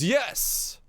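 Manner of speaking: very high little eager voice; banana answering. Pretend. A banana finally answers the shopper, tiny high eager yes. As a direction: squeak out a happy yes. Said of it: "until one goes".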